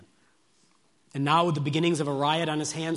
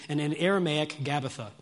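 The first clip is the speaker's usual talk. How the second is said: normal talking voice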